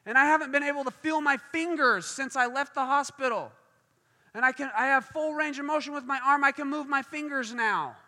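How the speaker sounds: amazed testimony. Retold or imitated. Preacher voices the man discovering his healed arm, amazed. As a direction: rush it out in amazement.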